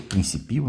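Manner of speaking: "Principio" said prin-ci-PI-o, rising at the end; stress on the second i. Shown as a demonstration. Teacher showing viewers a shifted accent, stress on PI. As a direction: lean on the PI in "Principio". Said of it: "Olha onde ficou o acento".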